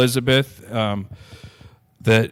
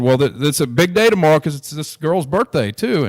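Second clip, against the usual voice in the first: his own excited reply; 7 semitones higher, 6 dB louder than usual. Retold or imitated. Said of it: "and I said".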